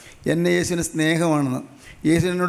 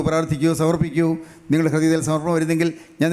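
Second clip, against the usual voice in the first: lower, earnest prayer voice for the flock to follow; led prayer; 3 semitones lower than usual. Acted. Preacher leading the congregation in a vow to Jesus, lower earnest prayer voice.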